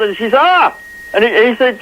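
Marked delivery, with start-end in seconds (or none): 0.4-0.8 high-pitched retold yelp; short mock cry, pitched way up; mock yell. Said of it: "she yelled".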